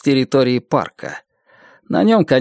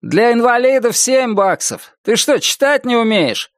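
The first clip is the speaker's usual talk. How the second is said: rude cashier; 10 semitones higher than usual. Acted. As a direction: snap at a dumb customer. Rude fat cashier scolds.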